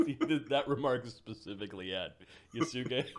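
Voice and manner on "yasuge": laughing through the name. Real, not acted. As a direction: break into laughter. Laughing at the remark.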